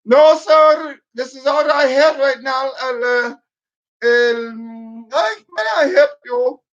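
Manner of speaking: hammed-up flustered agent; mock Indian accent. Agent answering a request for clear English, mock Indian accent. Customer service agent voiced.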